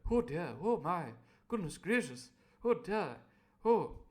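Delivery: lightly voiced fretting gent; fussy doctor. Doctor Livesey fretting, a lightly voiced fuss. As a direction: flutter like a fussy old doctor. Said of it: "Doctor Livesey presumably going".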